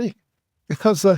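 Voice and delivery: slow, drawn-out through a laugh. Retold or imitated. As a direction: stretch it out while laughing. Laughing retelling the reaction.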